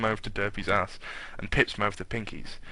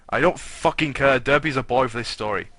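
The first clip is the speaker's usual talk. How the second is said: defiant aside; 3 semitones higher, 5 dB louder than usual. Real, not acted.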